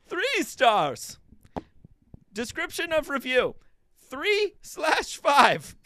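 joyful Bane. Pretend. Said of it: "like a joyful Bane".

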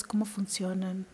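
a soft whisper to the listener; whispered aside. Real, not acted. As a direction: drop to a whisper on the question.

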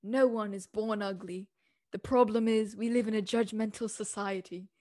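lightly put-on fancy quote-reading voice. Host leaving listeners with a quote, playfully fancy voice. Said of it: "going to put my fancy voice on".

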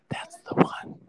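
breathless dreamy whisper. Retold or imitated. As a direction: whisper it like a crush. Swooning over a boy.

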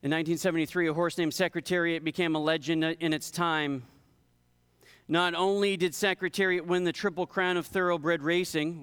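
lively, steady storytelling from the pulpit; illustration read aloud. A narrator's reading. Preacher telling the congregation about a legendary racehorse, illustration read aloud.

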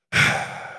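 long breathy exhale; imitated sigh. Dad imitating his child heard in the bathroom, sighing. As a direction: let out an audible sigh, imitating someone. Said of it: "and I hear in the bathroom".

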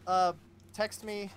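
high, loud shout-out apology; calling out. Pretend. Host apologising to his former editor, playfully calling out.

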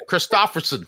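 Christopherson in a thick Jersey accent. Shown as a demonstration. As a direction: say Christopherson like a New Jersey local. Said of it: "I say it with my Jersey accent".

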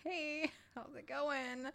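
high, slow, sing-song hello; slow cheery greeting. Retold or imitated. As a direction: drag out a fake friendly hello. Greeting the coworker each time.

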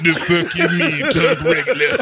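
imitating a deep-voiced friend; put-on deep voice for a mimicked retort. Deep-voiced friend objecting to being told talk regular, mock voice. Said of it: "Red's voice was deep from grade seven".

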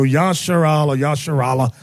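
Yasharal and Yasharala, with a "sh" and open "ah" vowels; Hebrew pronunciation. Shown as a demonstration. Giving the Hebrew for Israel, pronouncing Yasharal and Yasharala. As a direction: sound out Yasharal, then Yasharala with an added final "ah". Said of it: "however you want to pronounce it".

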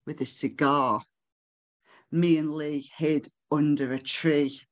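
measured, deliberate spoken-word delivery; poetry recital. Acted. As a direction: read the poem phrase by phrase, letting pauses hang. Recites own poem to audience.

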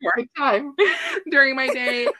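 giggling through the words; laughing while talking. Real, not acted. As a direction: laugh through it, a bit embarrassed. Laughing through embarrassing confession.

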